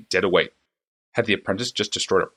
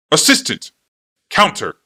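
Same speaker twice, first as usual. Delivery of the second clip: louder, higher shout to the back of the shop; 7 semitones higher, 7 dB louder, slower than usual. A narrator's reading. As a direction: call across the shop. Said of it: "he turned and shouted".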